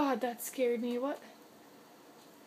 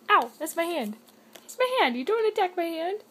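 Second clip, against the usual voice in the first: higher, louder mock scold; 4 semitones higher, 5 dB louder than usual. Real, not acted. Owner scolding the cat that bit her hand, mock scold. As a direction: tell the cat off.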